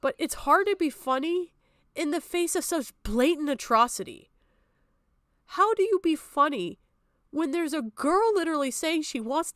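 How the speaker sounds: real upset rising in pitch as you protest; exasperated, emphatic protest; loud and upset. Real, not acted. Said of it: "I'm sorry if I was a little loud".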